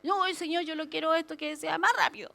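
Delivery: mild mock tantrum at God; impatient complaint, lightly acted; enojo fingido. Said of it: "Me enojo contra Dios". (berrinche leve e impaciente)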